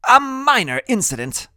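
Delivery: very high, loud know-it-all; high-voiced brainy kid; Freak's character voice. A narrator's reading. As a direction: pitch it way up, pompous.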